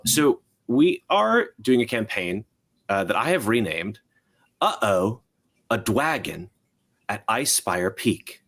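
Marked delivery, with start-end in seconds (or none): 5.7-8.4 Dwagon said with a W instead of an R. Shown as a demonstration. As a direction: Dwagon pronounced with a W, childlike. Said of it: "Very important that there's a W in there".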